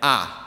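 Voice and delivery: sharply falling ah; fourth tone. Shown as a demonstration. Teaching the class the falling fourth tone. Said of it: "the fourth tone just goes down".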